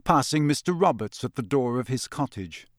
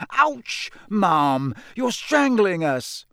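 high, protesting yelp; squashed twins; 7 semitones higher, 3 dB louder, much slower than usual. A narrator's reading. Twins squashed in their mother's hug, yelping. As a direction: complain while being crushed.

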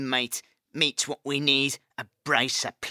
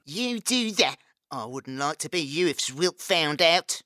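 higher, softer frightened rat; fearful rat; 8 semitones higher, 5 dB quieter than usual. Acted. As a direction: warn him nervously. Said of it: "looked fearful".

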